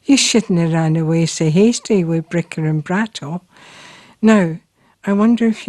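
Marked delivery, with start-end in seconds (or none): 0.0-3.4 reciting Robert Burns in a light broad Scots accent; Burns poem in Scots. Shown as a demonstration. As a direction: read the verse in a broad Scots accent, rolling the lines like a recital. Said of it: "starts off".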